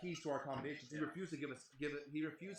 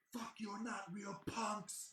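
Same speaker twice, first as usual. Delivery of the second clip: put-on higher, slow sneering drunk voice; mock drunk punk; 8 semitones higher, much slower than usual. Drunk promoter sneering at the band, higher and slow. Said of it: "he's in my face like".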